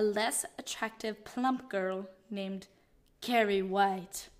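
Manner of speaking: measured, portentous narration; dramatic reading. Acted. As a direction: read the synopsis dramatically, lingering on the names. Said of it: "You're reading it really dramatically".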